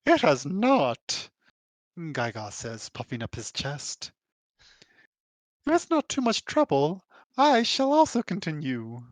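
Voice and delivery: slow puffed-up voice; lightly voiced proud scholar; Gaiga voice. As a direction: puff up and speak slowly. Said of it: "Can I do a British drawl?".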